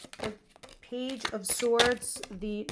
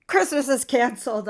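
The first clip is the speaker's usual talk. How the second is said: loud mock announcement; joking proclamation; 3 semitones higher, 10 dB louder than usual. Mother jokingly telling her daughter shopping is off, loud mock announcement. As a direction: declare it loudly in jest. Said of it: "I'm, like, joking with her".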